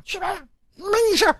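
put-on high, fast snapping at the kid brother; older cousin barking at the little one to get lost; fierce brush-off. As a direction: shoo him away sharply and fast. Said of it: "当时凶我打".

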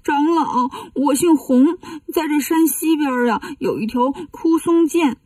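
put-on lightly whining child voice; mock crying. Demon posing as a child tells monk its story, mock crying. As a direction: play the pitiful child, half-crying. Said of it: "嘴上却哭着说".

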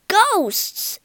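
loud high yell. Acted. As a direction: shout it out in alarm. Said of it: "yelled Claude".

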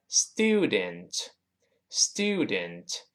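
"student" read slowly and fully; clear syllables. Shown as a demonstration. Teacher reads "student" carefully. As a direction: spell it out slowly. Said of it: "这个student".

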